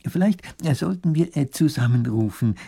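lightly voiced hemming professor; hesitant professor. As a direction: suggest it tentatively, with little "äh" pauses.

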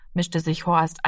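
usual speaking voice

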